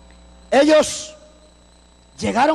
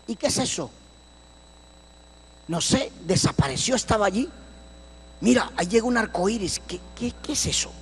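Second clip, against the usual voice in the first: low, soft, half-whispered wonder; awed hush; 5 semitones lower, 9 dB quieter than usual. Retold or imitated. Searchers whispering to each other at the vision, awed and soft. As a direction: hush the words as if something eerie appeared.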